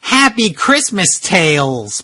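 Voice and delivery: lightly nasal-free hint of Urkel, slow; a light take on Urkel's voice; Urkel impression. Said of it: "that's Urkel".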